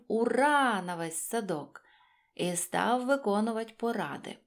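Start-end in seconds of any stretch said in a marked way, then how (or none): 0.1-0.8 a glad, loud hooray; joyful cheer. A narrator's reading. Hare cheering to the whole garden, joyful and loud. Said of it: "радо гукнув".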